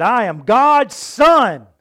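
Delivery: loud, high, slowed mimicry of his claim; mocking quote. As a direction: mimic his words with scorn. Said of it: "He said".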